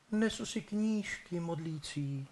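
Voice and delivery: put-on high, soft and slow girl's voice; frightened bride. Bride timidly answers the dead man in a high soft voice. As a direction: answer timidly like a scared young girl. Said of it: "ona mu jednou větou odpovídá".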